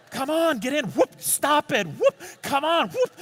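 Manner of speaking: high, strained pleading with the cat; wrestling the cat into the backpack; struggling. Retold or imitated. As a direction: fight a squirming cat into a bag.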